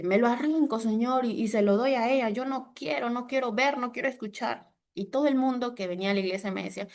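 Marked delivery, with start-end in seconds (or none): 0.0-4.7 higher, hushed protest; a mild imitation of crying refusal to God; retold pleading refusal. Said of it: "yo hacía eso de que".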